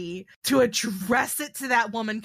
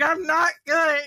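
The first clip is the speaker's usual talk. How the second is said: loud, high retold wail; hammed-up tearful outburst; mock sobbing; 7 semitones higher, 5 dB louder, slower than usual. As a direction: imitate sobbing your brains out, pitched up. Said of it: "sobbing my brains out".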